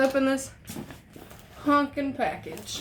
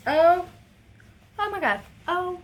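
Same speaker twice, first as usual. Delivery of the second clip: thrilled gasp; 7 semitones higher, 5 dB louder than usual. Real, not acted. Overwhelmed by tapestry.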